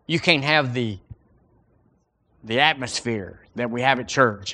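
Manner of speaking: ordinary talk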